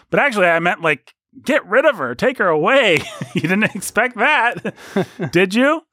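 high, hammed-up comedian explaining the gag; old joke delivery. Shown as a demonstration. Host explaining the old wife joke as its comedian, hammed-up. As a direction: push the pitch up, pleased with the twist. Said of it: "in this old joke from a".

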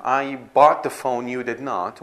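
I bought the phone loud and slow, you did not dropped; a teacher acts a pointed accusing contrast; mock confrontational. Shown as a demonstration. A teacher plays a pointed claim at an unseen rival. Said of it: "when we say things certain ways".

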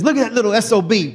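loud, high, fast proud yell; proud uncle shout. Retold or imitated. Uncle bragging to the store crew about his nephew, loud. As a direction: shout it out in delight. Uncle praising him at dock.

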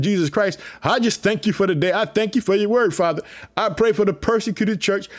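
fervent preacher's prayer to the Father; earnest prayer. Real, not acted. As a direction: pray it out with conviction. Pastor leads opening prayer.

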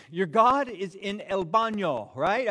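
hammed-up taunting prophet; mock taunt. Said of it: "he was taunting them".

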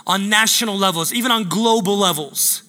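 preaching prayer over the people; prayer declaration. Acted. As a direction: declare it like a pastor praying.

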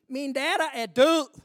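loud, anguished cry of a father; desperate shout. Acted. Father crying out to Jesus about his dead daughter, anguished shout. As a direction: shout it like a father whose child just died.

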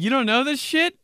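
high, loud scolding dad; dad scolding his son for not knowing pasta; outraged dad. Retold or imitated. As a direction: yell it like an Italian dad. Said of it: "He's like".

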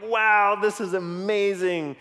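excited wow. Retold or imitated. Dad delighted by bonding talk.

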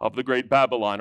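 loud ringing hear-ye proclamation; town crier. Retold or imitated. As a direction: call it out like a royal herald. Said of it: "He would step out and say".

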